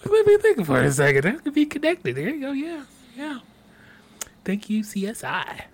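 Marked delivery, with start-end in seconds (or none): 0.0-3.4 TV detective voice. Acted. Playing a TV detective.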